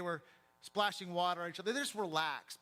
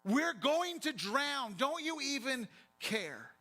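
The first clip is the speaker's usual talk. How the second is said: high, slow, drawn-out desperate yell; 5 semitones higher, slower than usual. Acted. Frightened disciples pleading with Jesus in the sinking boat, yelling. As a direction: cry out as if about to drown. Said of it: "They're yelling at him".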